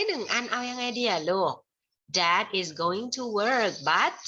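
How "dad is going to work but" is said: slow prompt read. Shown as a demonstration. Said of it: "ทำไมกับกุญแจดีอะลูก".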